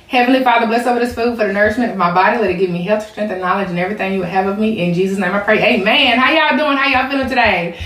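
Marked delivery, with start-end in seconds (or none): 0.1-6.2 quick prayer. Real, not acted. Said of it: "let me say my prayer".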